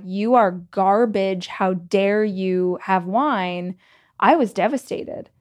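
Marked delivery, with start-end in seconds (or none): 0.0-3.7 slow, scolding commenter voice; lightly voiced self-righteous critic; mock outraged commenters. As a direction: drag out the judgment like a scolding troll. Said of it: "all these people were like".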